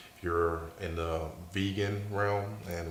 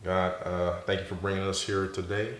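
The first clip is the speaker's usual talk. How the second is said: prayer. Acted. Prays for the audience.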